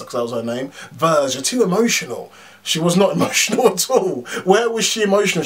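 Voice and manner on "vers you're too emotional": mocking Yon-Rogg. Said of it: "Yon-Rogg or Jude Law kept saying".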